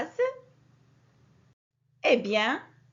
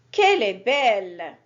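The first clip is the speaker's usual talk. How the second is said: a lower, louder cry of admiration; admiring exclamation; 6 semitones lower, 6 dB louder than usual. Shown as a demonstration. Teacher showing pupils an exclamation of delight. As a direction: marvel at something beautiful. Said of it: "un sentiment exprimé devant quelque chose de beau".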